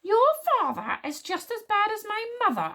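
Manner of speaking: high, angry comeback; bellowing insult. A narrator's reading. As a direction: hurl it back in a quarrel. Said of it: "bellowing insults and curses at each other".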